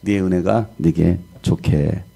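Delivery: a hint of God's slow, calm verdict; lightly voiced God, unhurried; God speaking. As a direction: pronounce it slowly, with quiet finality. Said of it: "하나님은 뭐라고 말씀하십니까".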